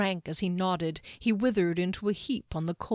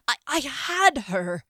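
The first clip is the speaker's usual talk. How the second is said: blubbering; 7 semitones higher, 5 dB louder than usual. A narrator's reading. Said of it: "he blubbered".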